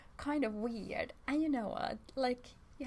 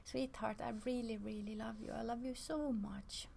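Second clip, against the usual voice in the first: tender self-talk. Shown as a demonstration. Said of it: "we speak like this to ourselves".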